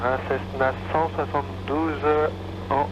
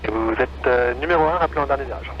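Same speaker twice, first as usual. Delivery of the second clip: tinny controller voice; over a radio; 4 semitones lower, faster than usual. Real, not acted. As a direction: heard through the headset. Tower calls over the radio.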